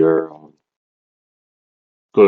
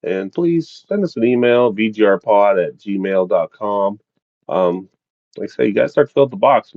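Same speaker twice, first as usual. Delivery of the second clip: upbeat host sign-off; bright announcer wrap-up; podcast outro; 3 semitones higher than usual. Acted.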